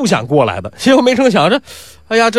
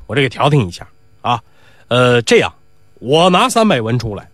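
put-on old man mediating. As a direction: settle them down like a patient elder. Old Mao mediates, pays money.

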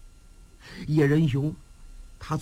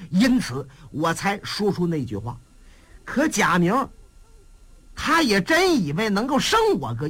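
lightly voiced young general, pitched higher and pleading his loyalty; young marshal's earnest defense; 6 semitones higher than usual. Young marshal answering the overseer's charge, earnest and proud. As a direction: argue your innocence, proud then humble.

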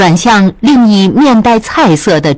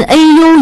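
high "ow" exclamation; brief yelp when bumped; cry of pain; 9 semitones higher, 3 dB louder than usual. A narrator's reading. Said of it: "一声".

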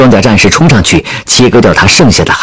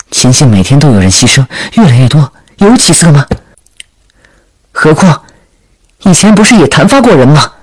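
put-on higher-pitched, arguing young leader; insistent princess; 6 semitones higher than usual. Princess pressing for the launch, insistent rising pitch. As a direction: argue back, pitch climbing as you go.

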